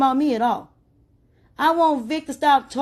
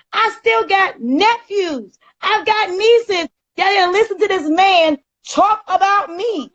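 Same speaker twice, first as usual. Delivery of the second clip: higher, heated rant with a crack of tears; ranting and raving; 6 semitones higher than usual. Real, not acted. On a live stream about the man mocking her son, furious ranting. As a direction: pour out real anger over your son. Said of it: "ranting and raving and getting yourself all up in the uproar".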